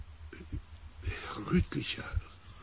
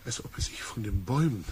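out of breath; 4 semitones lower than usual. Acted. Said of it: "keuchend und mit fliegendem Atem".

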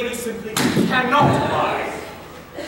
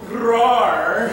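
gentle roar; 3 dB louder than usual. Shown as a demonstration. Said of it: "I will roar as 'twere any nightingale".

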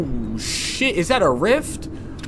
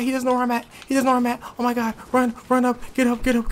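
ordinary talk

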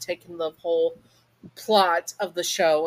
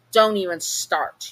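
warning; 2 semitones higher, 5 dB louder, slower than usual. Acted. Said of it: "you say, pointing at him".

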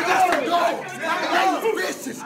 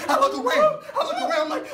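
laughing; 11 semitones higher, faster than usual. Real, not acted. Laughing while telling nervous story.

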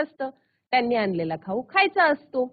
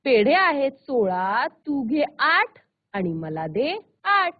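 slow river voice; slower than usual. Acted. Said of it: "नदी म्हणाली".

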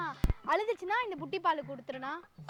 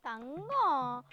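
put-on long drawn-out call to baby; cooing pet name; 2 semitones lower, much slower than usual. Mother calling her baby fondly.

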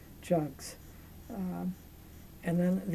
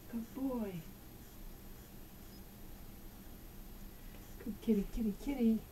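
squeaky praising a dog; 2 semitones higher, 7 dB quieter than usual. Real, not acted. Praising the cat.

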